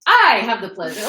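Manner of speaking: loud, measured, every word placed; deliberate loud voice. Acted. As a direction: announce it deliberately and loudly. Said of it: "in a deliberate and loud voice".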